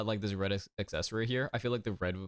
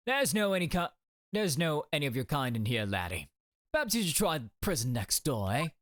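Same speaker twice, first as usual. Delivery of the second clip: put-on light stab at a Scottish accent; attempted Scottish accent; 3 semitones higher, faster than usual. Prison governor sending a foreign student away, attempted Scottish accent. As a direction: turn them away in a rough Scottish lilt. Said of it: "He's Scottish?".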